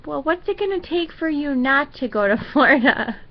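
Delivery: lightly voiced sweet grandma, a laugh slipping in; a hint of a little old grandma, half-laughing; grandma impression. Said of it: "That's the worst impression ever".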